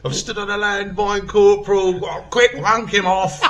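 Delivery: high, loud pretend battlefield cry; mock emergency shout. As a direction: call out a hammed-up emergency, near laughter. Joking imagined battlefield emergency cry.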